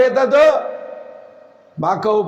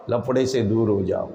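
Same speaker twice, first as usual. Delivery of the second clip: very low, soft counsel; subdued advice; 13 semitones lower, 6 dB quieter than usual. Real, not acted. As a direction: let the voice sink right down to advise. Preacher advises youth to avoid trouble. (नीची, धीमी आवाज़ में सलाह)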